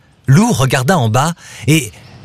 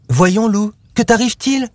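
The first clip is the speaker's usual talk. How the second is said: higher, astonished question; stunned; 8 semitones higher than usual. A narrator's reading. Louve to Lou after his outburst, stunned. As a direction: ask in stunned disbelief, pitch rising. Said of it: "souffla Lou stupéfaite".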